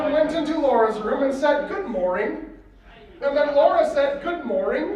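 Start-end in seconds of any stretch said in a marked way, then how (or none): 4.2-4.9 lightly mocking, with a lift on the last word. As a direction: echo the greeting with a touch of mockery. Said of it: "She was mocking him".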